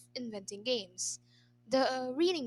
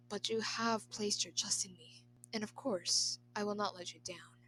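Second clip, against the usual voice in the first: compassionate conviction; 2 semitones lower than usual. Acted. Retainer reassuring his emperor, trailing into a whisper. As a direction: promise him you won't fail, gently. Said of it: "voice laced with compassionate conviction".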